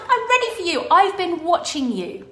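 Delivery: retelling Lorati's keen reply; eager and knowing. Retold or imitated. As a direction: lean in like you've waited all along. Lorati declares she is ready.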